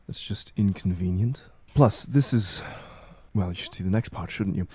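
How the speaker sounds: a mildly tired, cool voice that brushes off the sympathy; detached Ramona, weary. Acted. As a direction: shrug off the pity calmly, like a chore she must finish. GM voices Ramona replying to Lola.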